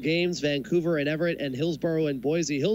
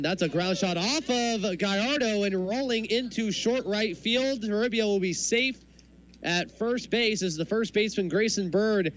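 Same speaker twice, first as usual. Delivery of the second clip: higher, rising play-by-play call; excited play call; 5 semitones higher than usual. Real, not acted. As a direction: lift the voice as the hit rolls through. Radio call of a base hit.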